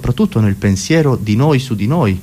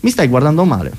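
lightly mocked schoolyard tough picking a fight; a hint of confrontational young lout; middle-school bully; 4 semitones higher than usual. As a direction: challenge him as a playground bully would. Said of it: "è un coatto delle medie".

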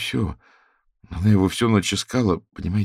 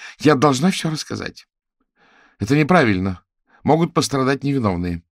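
higher, louder, pressing; insistent confession; 7 semitones higher, 5 dB louder than usual. Acted. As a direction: insist she must tell everything.

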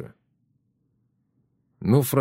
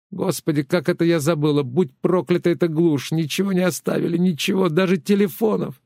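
higher, agitated wail of dismay; distraught old woman; 7 semitones higher than usual. Acted. Tereza laments the lost phones, higher and distraught. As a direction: cry out at the wilderness in despair.

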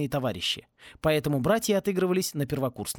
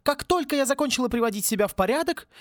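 hammed-up furious professor yelling; furious dean; 9 semitones higher than usual. Dean voice continues. (разъярённая деканша, высоко и громко)

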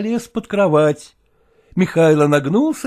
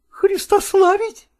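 mother =127; slower than usual. Acted. Mother asks.

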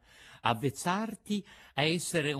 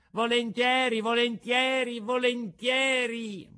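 eager agreement; 11 semitones higher, 6 dB louder than usual. A narrator's reading. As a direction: keep saying yes, bursting with eagerness.

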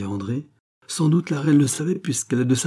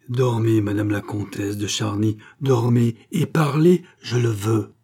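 hypnotic command. Acted. Gilbert hypnotizes the countess.

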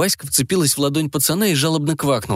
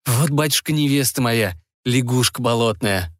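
put-on glum young Ivan. Ivan shows father his swamp frog bride, resigned and glum. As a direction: admit the frog bride without pride.

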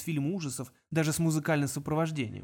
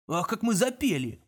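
mock surprise; 5 semitones higher, slower than usual. A narrator's reading. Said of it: "удивлённо воскликнул Конг".

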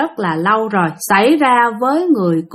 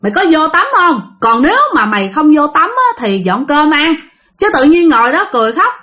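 mother's scolding; 3 semitones higher than usual. Retold or imitated. Mother telling off her strangely behaving daughter, acted scolding. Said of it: "bà Ba mới la".

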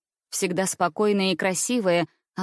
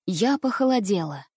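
plain reading voice

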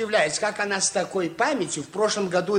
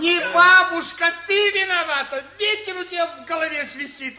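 raised, higher-pitched scolding; 8 semitones higher, 3 dB louder than usual. Acted. Father scolds Marina for the burnt list, loud and sharp. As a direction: snap at the daughter, loud and sharp.

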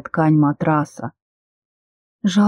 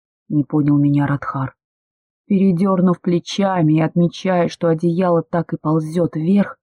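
usual speaking voice

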